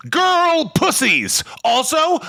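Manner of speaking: high mocking voice. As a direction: squeak it out mockingly. Mocking Ford, pitched way up.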